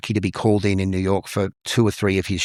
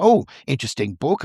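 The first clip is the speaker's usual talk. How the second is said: put-on older British gentleman, higher pitch, intrigued; British accent; 5 semitones higher than usual. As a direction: show polite interest in a British accent. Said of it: "in British accent".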